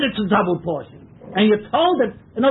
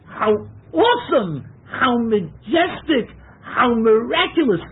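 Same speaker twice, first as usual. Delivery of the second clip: choked up; 5 semitones higher than usual. Real, not acted. Overwhelmed by the miracle.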